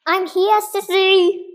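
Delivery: high, squeaky little sister. Acted. Little sister Emma announcing herself to her sister, high and squeaky. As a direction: pipe up like a small kid sister.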